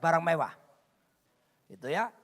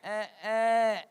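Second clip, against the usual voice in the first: drawn-out joke sound; 4 dB louder than usual. Retold or imitated. Duck word minus its B.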